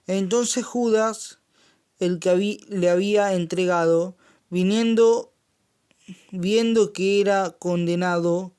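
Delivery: preacher reading the Gospel aloud; scripture reading. Acted. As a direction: proclaim the passage to the congregation.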